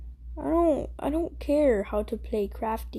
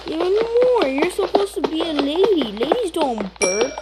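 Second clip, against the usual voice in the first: scolding; 5 semitones higher than usual. Real, not acted. Big sibling scolding sister for burping, high and bossy.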